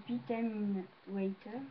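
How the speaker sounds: slightly slowed, lightly put-on bad English accent. Shown as a demonstration. Vlogger reads the bottle's English brand name, bad English accent. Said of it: "j'ai un accent anglais pourri".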